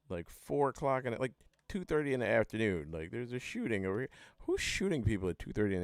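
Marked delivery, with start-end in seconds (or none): none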